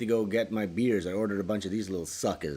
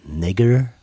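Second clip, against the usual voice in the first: loud test shout; 12 dB louder than usual. Pretend. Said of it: "Can only hear you when you say N-word".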